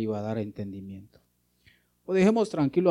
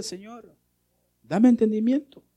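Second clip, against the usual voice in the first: earnest pleading prayer; 3 semitones higher, slower than usual. Acted. Pleading psalmist voiced.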